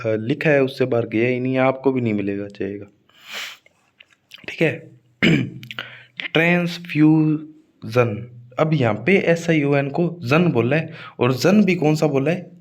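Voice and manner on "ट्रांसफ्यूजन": very slow ट्रांसफ्यूजन, broken into syllables; stress on फ्यू. Shown as a demonstration. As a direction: stretch FYOO in ट्रांसफ्यूजन, syllable by syllable. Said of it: "फ्यू पर stress आएगा". (ट्रांसफ्यूजन टुकड़ों में, फ्यू पर ज़ोर)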